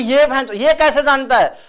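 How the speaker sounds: high, slow suspicious wife voice. Retold or imitated. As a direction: play the wife, suspicious and shocked.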